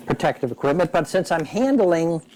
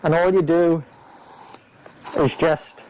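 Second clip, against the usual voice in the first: talking through a respirator mask; words muffled behind a face mask. Real, not acted. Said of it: "I hope you can hear me through this mask".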